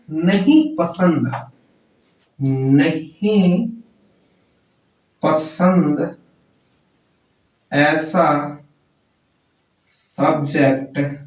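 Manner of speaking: each word of नहीं पसंद ऐसा subject set apart by long pauses, very slow; slow word-by-word mnemonic. Shown as a demonstration. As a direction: spell the mnemonic out one word at a time so students can copy it. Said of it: "याद इसे क्या करना है?".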